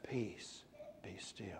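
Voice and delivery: hushed, very soft and gentle; very softly. Shown as a demonstration. Preacher repeating the soft demonstration for the congregation. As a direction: let it fade almost to nothing. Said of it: "Very softly".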